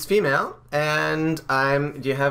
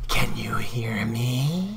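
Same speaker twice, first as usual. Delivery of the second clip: low, ethereal ghostly voice, drawn-out me; 4 semitones lower than usual. Voicing an unknown speaker whose identity nobody knows yet, in a super ghosty voice. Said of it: "I will do the super ghosty voice".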